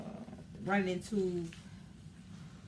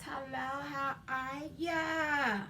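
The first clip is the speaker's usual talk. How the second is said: breathy vintage purr; 7 semitones higher, slower than usual. Acted. Vlog greeting in put-on voice.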